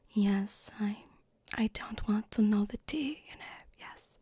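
lightly voiced, tactful mom; a hint of an awkward, polite mom. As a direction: play a mother smoothing over an awkward moment. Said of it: "I'm trying to do my mom voice now".

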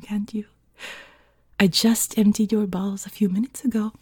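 put-on seductive housewife with a French accent; French-accented, teasing send-off. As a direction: borrow a French teacher's accent, coaxing. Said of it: "I'm basically using his voice".

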